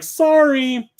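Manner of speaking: mock grinning "Sorry", pitched high; smirking clerk. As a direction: imitate the clerk's smug fake apology. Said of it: "weird smile on his face".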